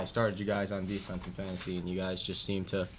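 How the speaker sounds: sarcastic. Acted. Mock thanks after a bad loss.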